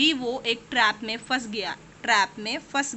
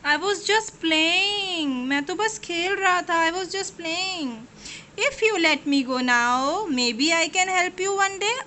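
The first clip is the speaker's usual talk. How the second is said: sweetly pleading; 3 semitones higher, much slower than usual. Acted. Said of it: "उसने बहुत प्यार से कहा माउस ने".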